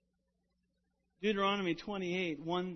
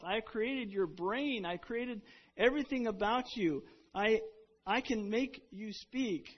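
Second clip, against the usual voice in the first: God's voice; 4 semitones higher than usual. Retold or imitated. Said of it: "And he says".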